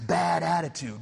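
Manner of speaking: quick, punchy shout of bad attitude; mock catchphrase. Preacher quoting a TV character's nickname, hammed-up shout. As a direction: bark it like the tough TV character.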